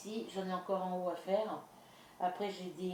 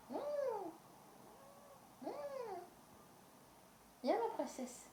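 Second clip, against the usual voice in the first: pet talk; 7 dB quieter than usual. Real, not acted. Cooing to her pet.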